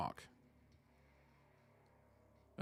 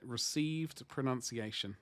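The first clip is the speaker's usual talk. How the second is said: "Received pronunciation" murmured slow, satisfied; quiet slow "Received pronunciation" as the answer; softer, settled repeat of "Received pronunciation"; 6 dB quieter, slower than usual. Shown as a demonstration. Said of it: "That was it".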